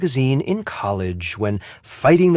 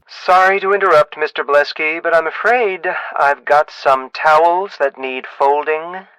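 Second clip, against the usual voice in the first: raised, projected voice; interrupting; 3 semitones higher, 4 dB louder than usual. Acted. Employee interrupts the boss about towels, raised voice. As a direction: cut in loudly with an apology.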